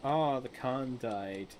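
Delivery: loud, rising disbelief at the game; exasperated, building to a high squawk; incredulous rant at the screen; indignant outburst. Real, not acted. Indignant at own courtier's refusal.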